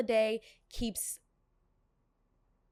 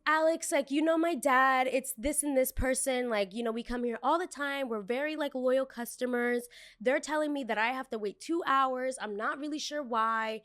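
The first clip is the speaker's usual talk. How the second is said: lightly voiced entitled customer, higher; mock the pushy guest, higher; a hint of a whiny customer; 4 semitones higher than usual. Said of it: "her tone is changing".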